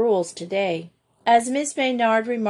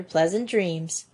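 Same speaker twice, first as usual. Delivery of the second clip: slower, softer and lower; doctor softly wishing the girl sweet dreams; gentle goodnight; 3 semitones lower, 3 dB quieter than usual. Acted. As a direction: send her off to sleep kindly. Doctor tucking child in.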